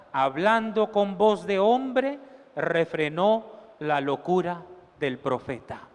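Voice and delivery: measured, steady Bible reading; preacher reading scripture aloud. Acted. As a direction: read the passage out to the congregation. Reads scripture passage aloud.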